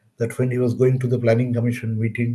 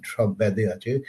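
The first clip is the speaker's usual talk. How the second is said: slow East Bengal intonation, a touch softer; East Bengal accent; 2 semitones lower, 3 dB quieter, slower than usual. Shown as a demonstration. Lecturer demonstrating the accent to the audience, slow East Bengal intonation. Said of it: "has the intonation of, uh, East Bengal accent".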